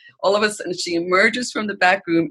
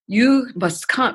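slow, higher-pitched attempt at an Asian accent; 5 semitones higher, slower than usual. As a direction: lightly imitate her Asian accent, slowly. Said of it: "in her accent, which I could not replicate".

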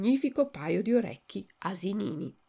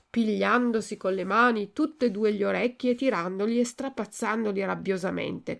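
usual speaking voice

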